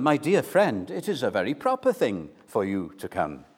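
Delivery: mild, understated courteous invitation; mere polite invitation. Acted. Showing believers how not to invite a friend, mildly polite. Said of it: "Do not merely invite them".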